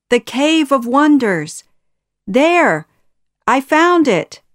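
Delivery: high, loud excited cry; excited discovery. A narrator's reading. Short man announces his find.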